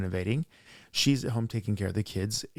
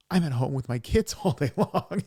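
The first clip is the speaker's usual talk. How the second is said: higher-pitched mock wail with a laugh; freaking out; 5 semitones higher, 4 dB louder than usual. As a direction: imitate an overwhelmed mother, half laughing. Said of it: "I'm freaking out".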